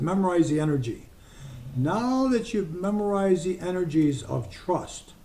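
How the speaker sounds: guided visualization. Acted. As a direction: ease them into feeling trust, unhurried. Leads a trust visualization.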